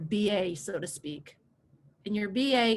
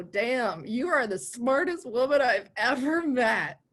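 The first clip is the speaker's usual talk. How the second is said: slow, louder, awed compliment; impressed praise; 4 dB louder, slower than usual. Retold or imitated. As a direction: marvel at her brains. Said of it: "I'm gonna go".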